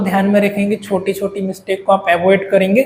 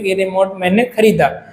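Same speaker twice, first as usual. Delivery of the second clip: brisk, simple statement; quick, easy. Shown as a demonstration. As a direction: say it straight off in one easy go. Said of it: "एकदम मैंने फटाक से बोल दिया easy way में".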